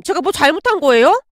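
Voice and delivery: defensive "잘못한 거예요", asked as if innocent; mildly aggrieved daughter-in-law; wounded protest. Acted. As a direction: ask "잘못한 거예요" with a rising, put-out question. Daughter-in-law protests after being scolded.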